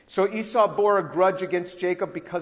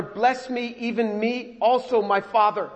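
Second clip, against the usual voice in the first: high, pleading and raised; pleading cry; 5 semitones higher, 4 dB louder than usual. Retold or imitated. Esau begging his father, high pleading cry. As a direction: beg your father for a blessing. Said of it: "he cries out again".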